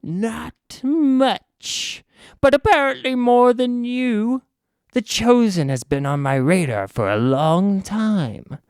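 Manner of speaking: slow, theatrical villain musing; villain reply. Acted. Villain boasting to the band about the chosen, slow and theatrical. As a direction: savor the poof, drawing it out. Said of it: "he says".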